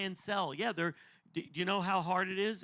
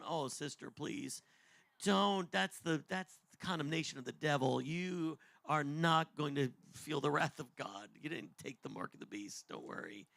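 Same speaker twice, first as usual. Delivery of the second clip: soft, gentle reassurance, dropping to a whisper at the end; calm her down gently; reassuring; 3 semitones lower, 4 dB quieter than usual. Retold or imitated. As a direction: comfort a frightened caller softly and quietly. Comforting upset woman on phone.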